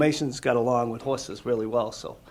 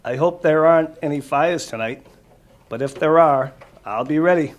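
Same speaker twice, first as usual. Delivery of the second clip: clear, lively storybook read-aloud, louder; reading to children; 7 dB louder than usual. Acted. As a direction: read it out to the kids with energy.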